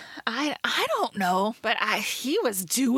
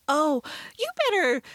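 higher, sing-song sugary friend voice, hammed up; mock cheery pep talk; 8 semitones higher than usual. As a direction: parody a preachy upbeat friend. Mocking overly chipper scripted dialogue.

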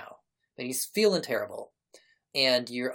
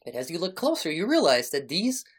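game master narration. Acted. Game master describes the scrolls to the player, deliberate narration. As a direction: unfold the grisly discovery deliberately, pausing between images.

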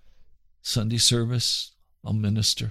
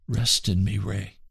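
very kindly, very gently; 4 semitones lower than usual. Retold or imitated. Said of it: "very kindly, very gently".

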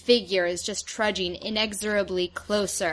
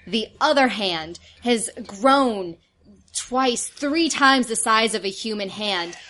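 scene setting; slower than usual. Acted. Game master describes the monster.

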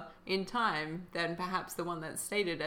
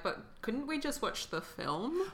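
higher, slow, softer mock whine; bored audience member; 5 semitones higher, 5 dB quieter than usual.

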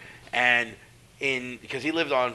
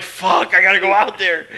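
tag; 6 semitones higher, 11 dB louder than usual. Retold or imitated. Acting out dread at bell.

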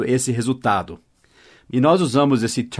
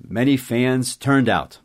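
slow model sentence; slower than usual. Shown as a demonstration. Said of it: "Muitas pessoas turned out".

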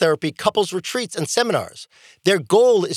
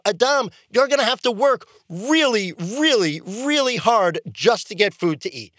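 God laying down the law. Retold or imitated. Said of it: "God gets all godly and lays down the law".

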